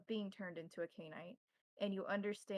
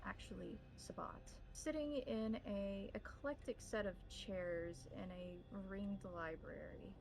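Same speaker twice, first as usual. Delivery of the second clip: scene-setting narration. Acted. Game master opening the scene for players, hushed narration. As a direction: draw the players into the library.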